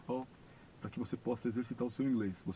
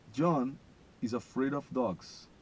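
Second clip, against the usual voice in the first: slow, louder and careful; slow model sentence; 5 dB louder, much slower than usual. Shown as a demonstration. Teacher reading the fourth sentence aloud, slow. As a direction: stretch out the words. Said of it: "vocês vão repetir o modo como eu falo".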